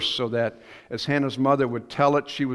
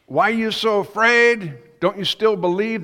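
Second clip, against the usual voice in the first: Jesus questioning; 7 semitones higher, 6 dB louder than usual. Retold or imitated. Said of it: "you know, these two".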